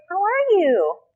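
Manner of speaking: high, swooping "How are you" greeting. Shown as a demonstration. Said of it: "your voice pitches up".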